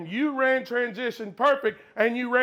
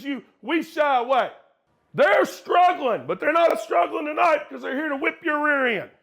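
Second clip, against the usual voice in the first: raised, fired-up coach rant; halftime pep speech; 2 semitones higher than usual. Real, not acted. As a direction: fire them up and shame them.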